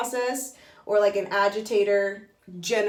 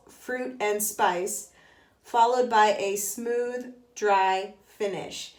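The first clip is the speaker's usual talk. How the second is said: reading aloud. Shown as a demonstration. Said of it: "it says".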